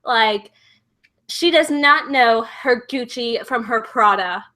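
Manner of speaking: put-on drawn-out Valley Girl gossip; slow, stretched words, catty Valley Girl impression. Shown as a demonstration. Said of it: "like, kind of Valley Girl".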